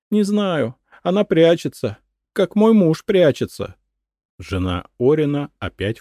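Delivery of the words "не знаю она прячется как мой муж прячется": high, loud frantic accusation; shrieking crazed widow; paranoid madwoman. A narrator's reading. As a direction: cry it out in paranoid fear. Madwoman anxious ranting.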